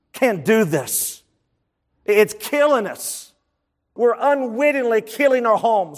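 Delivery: earnest, emphatic preacher's plea; imploring. Real, not acted. Preacher to the men about spiritual adolescence, imploring. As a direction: implore them with deliberate, weighted phrases. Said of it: "just like I'm imploring us men right now".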